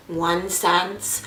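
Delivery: mock slow, laborious counting; really slowly. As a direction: imitate a cashier counting coin by coin. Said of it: "like, really slowly".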